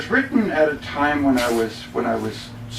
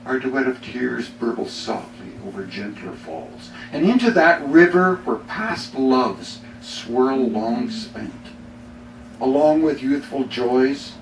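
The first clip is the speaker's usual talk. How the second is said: poem reading. Acted. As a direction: read it as a sincere, weighty poem. Reads poem The Fellow Traveler.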